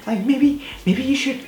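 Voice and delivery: very high, whiny mocking imitation; mock neighbor voice. Imitating the neighbor suggesting drugging the dog. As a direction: squeak it out like the snooty neighbor. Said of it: "she's like".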